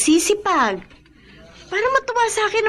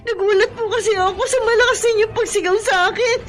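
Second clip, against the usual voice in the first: tearful pleading; 4 semitones higher than usual. Acted. Maid pleading while crying.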